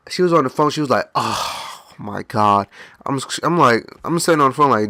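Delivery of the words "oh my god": sighed-out mock exasperation; exasperated attitude. Wife on phone giving attitude, mimicked exasperation. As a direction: imitate a drawn-out, fed-up groan. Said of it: "had the nerve to get an attitude".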